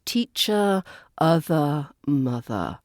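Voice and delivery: "teacher, other, mother" with endings relaxed to uh; no R at the end of "teacher, other, mother"; final schwa. Shown as a demonstration. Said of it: "words end in the er sound".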